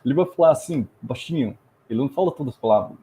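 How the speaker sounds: quick European Portuguese with swallowed vowels; imitated Portugal accent, syllables dropped. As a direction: talk like a man from Portugal, words run together. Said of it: "when you see a Portuguese guy speaking".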